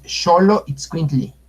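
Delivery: Xoloitzcuintli said slowly with sh at the start and li at the end; slow, careful Xoloitzcuintli; careful correct pronunciation. Shown as a demonstration. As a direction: draw out Xoloitzcuintli as sho-lo-its-kwin-tli. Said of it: "aquí escriben Xoloitzcuintle, eh, es".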